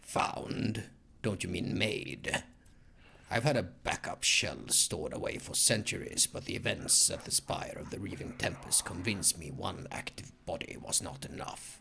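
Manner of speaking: low, arrogant, condescending lecturing voice. Voicing Tevantius answering the player in a game, arrogant Tevantius voice. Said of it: "with all the usual arrogance. / The familiar voice of one of the Xenos sounds as though he was lecturing a child. / with all the usual arrogance. / I'm doing this voice".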